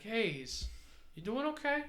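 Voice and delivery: high, loud concerned call. Acted. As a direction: shout from the truck window. Driver calls out to old man.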